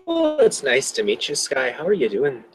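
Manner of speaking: light Irish lilt, in character; playing a chatty Irish-accented character; attempted Irish accent. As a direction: greet someone new in a put-on Irish accent. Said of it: "I know what accent you're trying to do".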